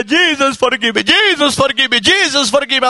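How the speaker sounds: mildly acted tearful plea, over and over; retold crying prayer. New convert begs Jesus for forgiveness, imitating crying. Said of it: "I began to cry".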